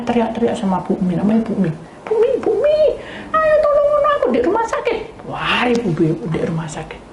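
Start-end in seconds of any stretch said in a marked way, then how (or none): 2.1-5.0 high, loud cries for help; panicked calling. Retold or imitated. Wife calling Bu Mi for help, high panicked calls. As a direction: call out in terror.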